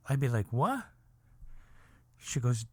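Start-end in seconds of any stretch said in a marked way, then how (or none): 0.5-0.8 shocked what. Retold or imitated. Shocked reaction to news.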